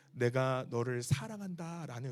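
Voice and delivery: whisper-close and gentle, like God speaking inside; tender inner voice. Retold or imitated. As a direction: inner voice of God, softly and slowly. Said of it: "음성이 들렸어요".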